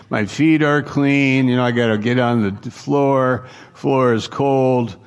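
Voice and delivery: gently mock a lazy excuse; mock whining bride. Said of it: "And she says to herself".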